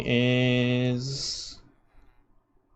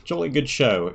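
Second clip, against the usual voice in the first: put-on British accent. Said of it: "Yes, you're certainly British".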